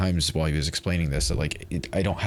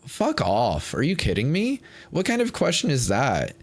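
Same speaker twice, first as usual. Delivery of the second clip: real outrage; 6 semitones higher than usual. Real, not acted. Venting anger at the doctor.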